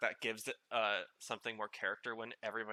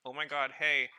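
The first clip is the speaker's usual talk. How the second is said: excited cat; 2 semitones higher, 4 dB louder than usual. Retold or imitated. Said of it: "was like".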